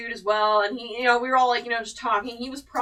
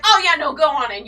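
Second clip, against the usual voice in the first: higher, louder easygoing wave-through; casual guard; 5 semitones higher, 10 dB louder than usual. Retold or imitated. Security guard tells her to go on in, louder. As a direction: play the guard shrugging her in.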